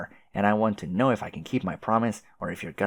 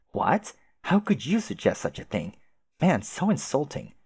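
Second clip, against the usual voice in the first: fake offended; 6 semitones higher than usual. Feigned offense.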